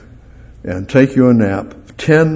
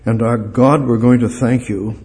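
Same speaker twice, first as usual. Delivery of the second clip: prayer. Acted. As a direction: pray gently and sincerely to God. Closing prayer.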